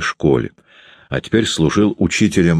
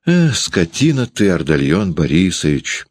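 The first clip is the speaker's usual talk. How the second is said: reproachful exclamation. Acted. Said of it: "укоризненно воскликнула".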